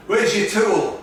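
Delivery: lightly voiced movie line; film quote. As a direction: toss out the line like a film character. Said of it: "I got carried away with the film there".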